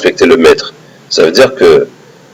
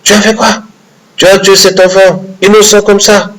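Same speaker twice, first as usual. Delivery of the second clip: high, shocked cry of outrage; outraged outburst; 10 semitones higher than usual. Acted. Moussa explodes at Khidr over the child, high and outraged. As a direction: explode in disbelief at the killing. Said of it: "c'est l'explosion".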